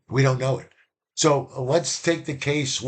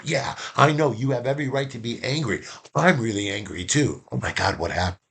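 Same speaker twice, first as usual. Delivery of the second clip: agreeing. Shown as a demonstration. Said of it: "because you confirmed".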